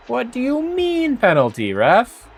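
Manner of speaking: high, indignant yell at the ref; yelling from the sidelines. Real, not acted. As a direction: shout your protest at the referee. Yelling at the referee.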